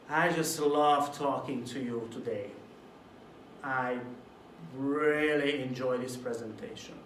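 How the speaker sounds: mumbled, unenthusiastic compliment; flat, insincere delivery. Shown as a demonstration. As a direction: say it like you don't mean it. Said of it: "What if I say it like this?".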